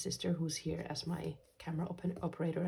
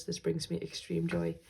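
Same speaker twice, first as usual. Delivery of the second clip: smiling voice; 3 dB louder than usual. Real, not acted. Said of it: "you can hear the smile in my voice".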